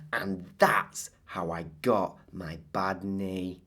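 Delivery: slow hushed whisper. Acted. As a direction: lean in and whisper the ending. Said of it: "whispered ending".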